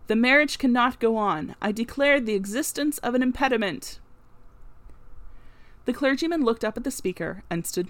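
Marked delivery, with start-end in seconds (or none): 0.1-4.0 loud, firm declaration; firm objection. Acted. Stranger to the wedding party, firm and loud objection. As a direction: halt the wedding with authority.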